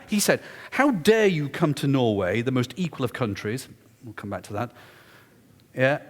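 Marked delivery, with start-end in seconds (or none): 0.7-3.7 mock-indignant heckler; indignant challenge. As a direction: imitate someone outraged, drawing the words out. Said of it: "absolutely determined".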